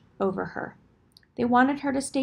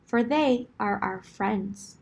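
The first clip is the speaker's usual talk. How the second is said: royal announcement. Acted. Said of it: "made a royal announcement".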